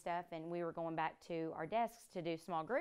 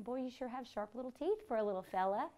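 talking to the snake; 3 semitones higher than usual. Retold or imitated. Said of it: "was all talking to him".

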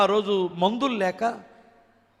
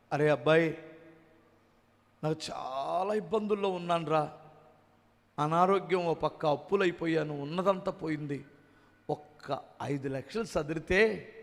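hesitant quiet plea; 5 semitones lower, 6 dB quieter than usual. Retold or imitated. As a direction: lower and softer, ashamed to ask. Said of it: "అడగలేక".

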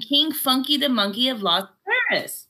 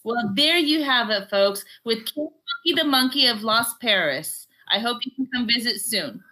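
a hint of a host wrapping up; lightly voiced reporter sign-off; mock newscaster closing to the viewers. Host signs off the interview.

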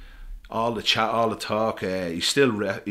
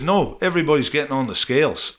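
a louder, higher put-on Scottish accent, firm; Scottish coach insisting; 6 semitones higher, 6 dB louder than usual. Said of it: "it's a really poxy Scottish accent I'm gonna do".

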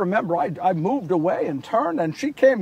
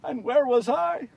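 pained question, not yet raised; self-reproach; 3 semitones higher than usual. Acted. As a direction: ask yourself with restrained shame.

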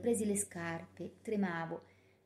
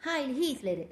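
higher, louder stiff salute; dutiful salute; 5 semitones higher, 4 dB louder, slower than usual. A narrator's reading. Herta greeting the SS officer with a stiff salute. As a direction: recite the salute like a duty. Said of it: "recitò Herta".

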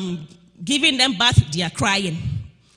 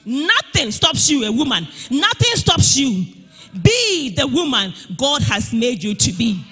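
rousing preaching. Real, not acted. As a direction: push every line out like a rallying cry. Exhorting women at full force.

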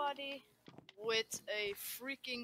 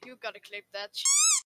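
louder hyped shout; 8 dB louder than usual. Real, not acted. Hyped demand to clip.

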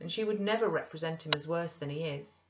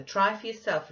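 higher, louder challenge; crying out; 4 semitones higher, 6 dB louder than usual. A narrator's reading. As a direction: throw out a loud challenge. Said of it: "cried the other".

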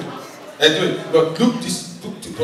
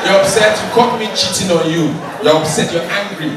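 loud mock upset girlfriend; mock angry; 6 semitones higher, 6 dB louder than usual. Shown as a demonstration. Comic showing the woman how to be upset, mock angry. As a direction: play the wronged girlfriend, loudly. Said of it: "Be angry".

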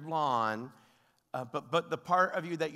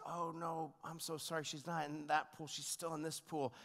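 consoling father; 3 semitones higher, 8 dB quieter than usual. Retold or imitated. Father consoling his crying son.

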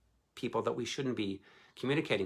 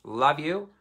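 loud, lifted "love you"; cheery goodbye; upbeat affectionate farewell; 6 semitones higher, 8 dB louder than usual. Real, not acted. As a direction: call it out high and loud to the audience. Affectionate sign-off to viewers.

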